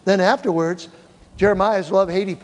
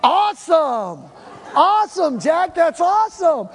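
high, loud, laughing awesome; delighted cheering; 10 semitones higher, 4 dB louder than usual. Retold or imitated. Pastor cheering Jack's pain as a sign, delighted. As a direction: draw out the awesome, thrilled.

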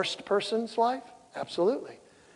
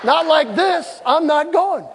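stubborn refusal; 9 semitones higher, 6 dB louder, slower than usual. Retold or imitated. Husband refusing in acted quarrel.

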